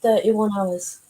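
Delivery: slowed down, spelled out for him; slow clear repeat. Real, not acted. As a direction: repeat it slowly so he catches it.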